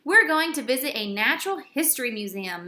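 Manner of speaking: quick, eager announcement; a touch of teacher excitement; mildly excited teacher. Acted. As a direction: share the news brightly. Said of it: "all excited".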